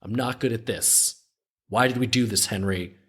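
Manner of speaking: acting out a griping partner; mild whine of frustration, dropping on the name; exasperated complaint. Acted complaint continues after mock laugh.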